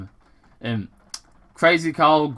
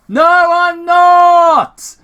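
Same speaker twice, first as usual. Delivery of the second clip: faint reply; 12 dB louder, much slower than usual. Acted. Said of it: "it replied faintly".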